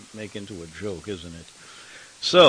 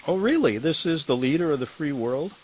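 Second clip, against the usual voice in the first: mock-incredulous, "really" pitched up high; sarcastic disbelief; 5 semitones higher than usual. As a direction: scoff at the headline in mock amazement. Mocking the headline about Biden.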